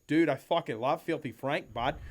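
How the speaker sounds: loud, imitated Australian enthusiasm; Australian accent. Australian guitarist praising a fan's shirt, Australian accent. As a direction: gush like an Australian bloke. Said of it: "I cannot do an Australian accent".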